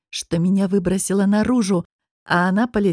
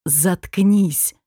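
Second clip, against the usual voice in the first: quiet fury. Acted. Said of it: "прозвучало негромко, но так яростно".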